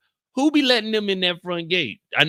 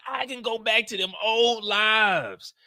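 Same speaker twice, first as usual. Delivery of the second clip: heated rant; 5 semitones higher, slower than usual. Real, not acted. Ranting about the show.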